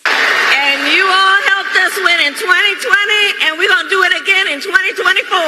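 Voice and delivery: loud southern drawl on the rally crowd; southern urban drawl. Real, not acted. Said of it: "she's suddenly got some sort of a southern urban drawl happening".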